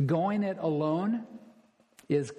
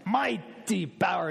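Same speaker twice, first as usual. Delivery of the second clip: "mighty power" with an imitated Argentine accent. Pastor mimicking Luis Palau's favourite phrase, Argentine accent. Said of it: "with that Argentine accent".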